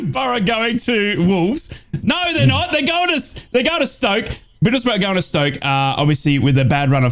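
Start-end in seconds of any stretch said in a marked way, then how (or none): 0.0-5.5 laughing, pitched way up high; reading through giggles, very high; giddy laughing. Real, not acted. Giddy after Socceroos news.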